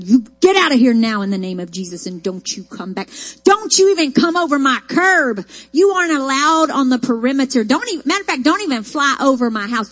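loud, commanding rebuke of a spirit; rebuking demons. Retold or imitated. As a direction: drive the demons out with authority. Casting demons out of room.

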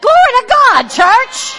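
loud, high shout of glory; exultant praise. Real, not acted. Preacher exulting to the church.

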